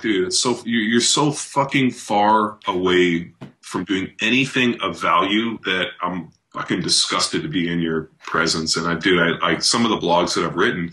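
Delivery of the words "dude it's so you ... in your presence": disgusted retort. Retold or imitated. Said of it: "I'm like".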